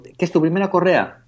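curious clerk. Retold or imitated. Assistant asks about first strap.

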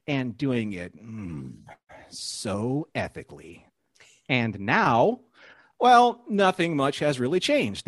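TV recap announcer, deliberate phrasing. Pretend. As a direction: read it like a show's "previously on" narrator. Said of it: "my announcer voice on".

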